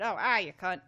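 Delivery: badly faked Australian accent; half-hearted mock Australian; terrible Australian accent. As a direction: throw in a clumsy Australian accent. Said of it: "that's a terrible Australian accent".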